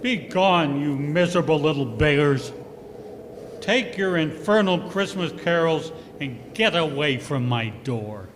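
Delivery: angry dismissal. Acted. Scrooge drives carolers away.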